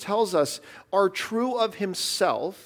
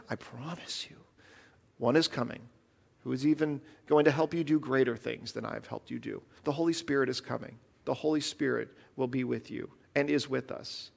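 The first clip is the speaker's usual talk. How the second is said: soft reassurance; 7 semitones lower, 8 dB quieter than usual. Acted. Voicing Jesus, soft promise.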